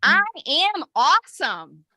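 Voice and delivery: slow, high, stretched-out mantra; emphatic lead for the group to echo; heartfelt affirmation. Shown as a demonstration. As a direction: belt it out from the heart. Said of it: "feel it in your heart when you say it".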